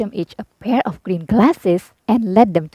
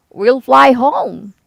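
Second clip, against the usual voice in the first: grand wizard; 3 semitones higher, 6 dB louder, much slower than usual. A narrator's reading. Wizard announcing balloon.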